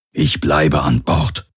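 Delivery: slow, gently voiced alien crewmate; gentle. A narrator's reading. Aur telling Kirai he will stay behind, gently. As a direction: take it slowly, with gentle reassurance. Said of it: "sagte er sanft".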